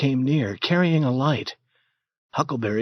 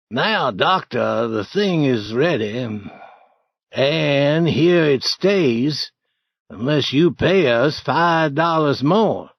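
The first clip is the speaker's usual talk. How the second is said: slow, louder threat; menacing Potter; 3 semitones higher, 4 dB louder, slower than usual. Acted. Potter demanding money from the doctor, slow menacing. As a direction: drag out the threat.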